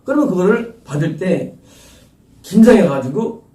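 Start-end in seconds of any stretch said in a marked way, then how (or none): none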